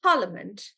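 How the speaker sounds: parliament with par stressed. Shown as a demonstration. Teacher models parliament for the class, par stressed. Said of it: "we'll just do".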